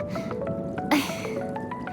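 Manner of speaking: long, soft sigh; resigned sigh. Acted. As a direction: breathe out quietly, giving in. Resigns to talking about self.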